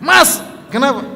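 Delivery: high, light mock husband voice asking what's wrong; playing the husband, a caring question. Preacher voices husband asking his upset wife, lightly acted.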